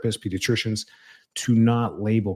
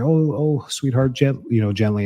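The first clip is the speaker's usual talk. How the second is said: mock gentle coaxing; 3 semitones higher, 3 dB louder than usual. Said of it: "you're not gonna sit there".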